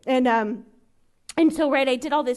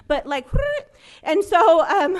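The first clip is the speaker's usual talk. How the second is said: laughing; 5 semitones higher, 8 dB louder, slower than usual. Real, not acted. Laughing about her eager plan.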